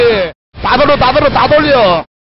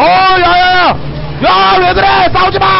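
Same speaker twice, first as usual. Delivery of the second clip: yelling to stop; 7 semitones higher than usual. Real, not acted. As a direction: shout them apart in alarm. Game chaos, yelling at teammates. (싸움을 말리며 다급하게 외치는 고함)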